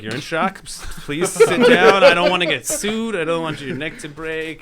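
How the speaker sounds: high, loud pleading voice of a panicky bystander; worried bystander. Retold or imitated. A bystander pleads with the injured teen, high and loud. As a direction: beg him to sit down, voice up high. Guy urging him to sit.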